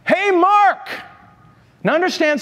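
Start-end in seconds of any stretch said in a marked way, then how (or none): 0.0-0.9 high, loud call across a street; shouted name. Retold or imitated. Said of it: "and the voice said".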